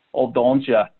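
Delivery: light Wisconsin accent attempt. Shown as a demonstration. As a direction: try out a Wisconsin accent, half-sure. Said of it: "Can you, can you give me your best Wisconsin accent?".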